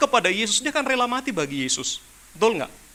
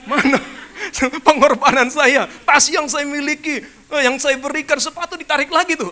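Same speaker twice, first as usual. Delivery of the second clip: louder, indignant reclaiming of gifts; mock demanding ex; 3 semitones higher, 6 dB louder than usual. Jilted lover demanding the bag and shoes back, loud and indignant. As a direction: play the petty ex demanding everything back.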